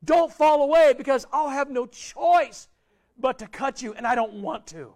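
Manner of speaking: lightly voiced pleading God, slow in places. Preacher voices God begging the congregation not to fall away, earnest plea. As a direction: beg them gently not to leave. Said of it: "God's saying".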